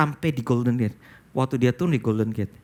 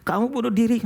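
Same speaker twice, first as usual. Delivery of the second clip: loud inner voice; 7 semitones higher than usual. Retold or imitated. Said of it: "Satu suara kencang".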